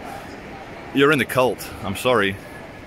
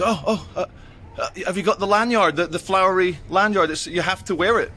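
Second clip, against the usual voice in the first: shop lady; 6 semitones higher than usual. Retold or imitated. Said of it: "She goes".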